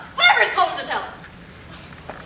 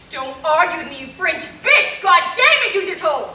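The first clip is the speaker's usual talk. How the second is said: furious yell; 3 semitones higher than usual. Acted. Lorraine screaming at the French operator, furious. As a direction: lose your temper at the operator.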